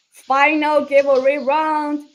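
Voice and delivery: loud, drawn-out game-show hype; slow, emphatic giveaway hype; hyped announcement. Real, not acted. Host hypes the final giveaway.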